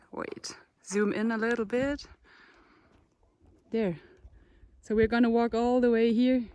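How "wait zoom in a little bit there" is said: soft unvoiced aside; whispered aside. Real, not acted. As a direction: whisper it to the cameraman. Quick aside to the camera operator.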